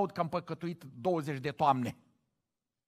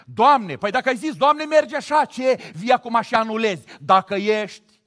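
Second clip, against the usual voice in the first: higher, louder whiny reproach; mock complaining prayer; 7 semitones higher, 8 dB louder than usual. Believer reproaching God in prayer, mock. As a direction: complain to God like a sulky child. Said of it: "Asta e rugăciune?".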